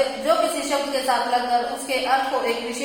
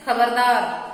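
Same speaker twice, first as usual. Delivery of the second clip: loud warning call of खबरदार; stern warning; 5 dB louder, slower than usual. Shown as a demonstration. Teacher demonstrating a warning to the class, loud and stern. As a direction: warn sharply, खबरदार. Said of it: "चेतावनी बोधक में क्या कहते हैं?".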